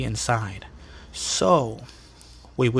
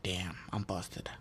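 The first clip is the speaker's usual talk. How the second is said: defeated mutter; 5 semitones lower, 17 dB quieter, slower than usual. Retold or imitated. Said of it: "I'm like".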